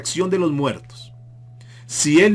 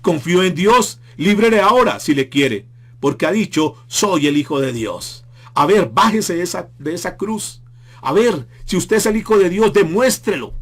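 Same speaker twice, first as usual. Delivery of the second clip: louder, higher taunting of the crucified man; mocking jeers; 4 semitones higher, 3 dB louder than usual. Preacher voicing the crowd taunting Jesus, loud mocking jeers. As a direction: jeer at him from below the cross. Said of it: "Ellos le gritaban y le estaban diciendo".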